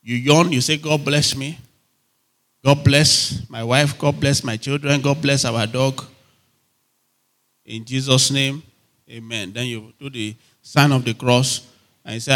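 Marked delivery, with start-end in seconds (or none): 0.8-9.5 listless, perfunctory bedtime-style prayer; yawning prayer. Acted. Preacher mimics someone praying on waking, yawning prayer. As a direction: rattle off blessings half-awake, trailing away at amen. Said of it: "wake up and just yawn".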